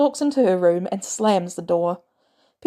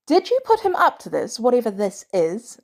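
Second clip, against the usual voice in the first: angry; 3 semitones higher than usual. Acted. May confronting Barnes.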